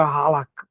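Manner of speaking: halakha with the H made in the throat; halakha, its H pronounced from the throat; guttural H. Shown as a demonstration. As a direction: say halakha with a throaty, R-like first sound. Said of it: "mais da garganta".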